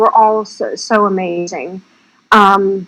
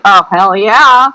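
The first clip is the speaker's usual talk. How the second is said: louder, drawn-out enthusiastic yes; eager yes; 6 dB louder than usual. Retold or imitated. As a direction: retell an eager acceptance, punched and slow. Retells actress's eager acceptance.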